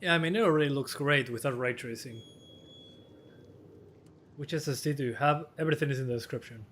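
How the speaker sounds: hoarse, worn-out voice; a tired, hoarse voice; losing voice. Real, not acted. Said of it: "I'm losing my voice".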